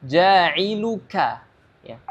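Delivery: ja'iluka with a thin breathy k, slow; thin kaf. Shown as a demonstration. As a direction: say ja'iluka with a light whispered kaf. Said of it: "Dan huruf kaf ini dia tipis".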